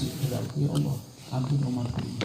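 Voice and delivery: soft, pleading prayer; hushed plea. Acted. Prophet weeping, begging for forgiveness. (doa lirih memohon ampun)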